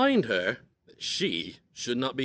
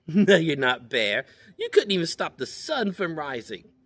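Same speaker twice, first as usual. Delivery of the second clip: chipmunk taunt; 5 semitones higher, 5 dB louder than usual. Acted.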